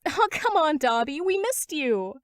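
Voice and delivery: put-on high, excited girlish squeal; high giddy girl; Toga's voice. A narrator's reading. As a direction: gush like a clingy girl. Toga greeting Dobby, squealed.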